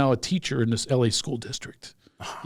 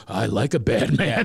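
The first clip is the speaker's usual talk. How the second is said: slow, teasing woman's line; sultry woman voice; 4 semitones lower, slower than usual. Retold or imitated. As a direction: purr it like a flirt. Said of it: "they go".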